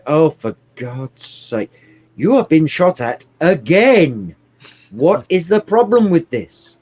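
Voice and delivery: lightly voiced fussing granny, slow to start; a hint of a tutting grandmother; grandmotherly voice. A hint of the ship's grandmotherly voice scolding the hero. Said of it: "some sort of grandmotherly voice going".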